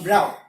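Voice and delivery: "route" said to rhyme with "out"; "route" as Americans say it. Shown as a demonstration. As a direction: say "route" as ROWT. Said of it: "American English, they pronounce it".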